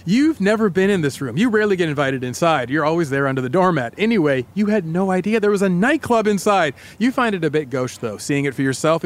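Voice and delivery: lightly dramatic storytelling; story narration. Acted. Host casts co-host as a door key, lightly dramatic story narration. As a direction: narrate it as a suspenseful tale told to the listener. Tells a second-person scene.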